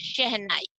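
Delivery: "शहनाई" opening on sh, tongue to palate; "शहनाई" with a careful palatal first sound. Shown as a demonstration. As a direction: model the sh at the start of "शहनाई". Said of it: "तालू से touch करते हुए".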